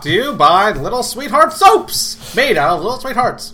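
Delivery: put-on old-time radio announcer; vintage ad read, sing-song; old-timey voice. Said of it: "I'm the one speaking in an old-timey voice".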